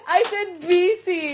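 loud, high "busy" with a firm B; laughing insistence on the B of "busy"; insistent clear B. Shown as a demonstration. Streamer insisting to giggling friend, "busy" with B. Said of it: "Busy with B".

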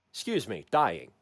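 hacking, choking cough; coughing up blood. Pretend. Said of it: "just choking on my own blood".

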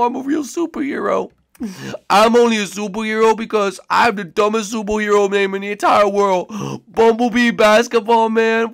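roast Tyler in his voice; Tyler impression. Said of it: "you wanna do it to me?".

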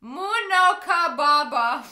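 Muno ka baba said slowly and carefully; puzzled slow reading of Muno ka baba; slow repeat. Retold or imitated. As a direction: sound out Muno ka baba syllable by syllable. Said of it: "What does it mean?".

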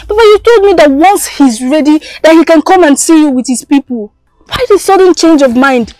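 upset protest. Acted. Daughter protests father's refusal.

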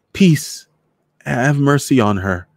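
high, loud cry for mercy; urgent plea. A narrator's reading. Girl begging a soldier to spare her companion, urgent plea. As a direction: beg urgently for her release. Narrator pleads with armed soldier.

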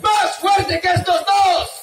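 booming strongman boast, drawn out; silly clown. Acted. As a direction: shout it like a circus strongman. Clown leads crowd in shouted chant.

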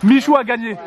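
loud announcement. Real, not acted. Announcing the contest winner.

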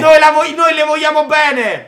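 high, slow, pleading cry. Pretend. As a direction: beg him, mock-wounded. Pleading with Vito to accept them.

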